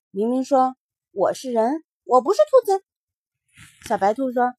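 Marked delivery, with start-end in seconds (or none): 1.1-2.8 put-on protesting child. Mingming protests.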